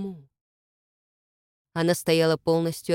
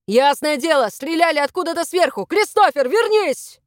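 loud, rising to a high call; urgent shouting; 7 semitones higher, 5 dB louder than usual. A narrator's reading. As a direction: shout back, then call your friend urgently. Shouting under fire to comrades.

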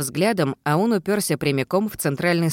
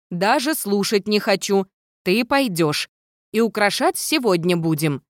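insistent friend; 5 semitones higher than usual. A narrator's reading. Viola insists, voiced higher.

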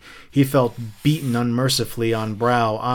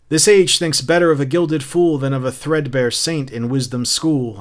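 mild mock yell; retold yell; 3 semitones higher, 5 dB louder than usual. Captain imitating Montag in the dream, mild yell. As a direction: declaim it with punched bursts, short of yelling. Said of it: "And you yelled".

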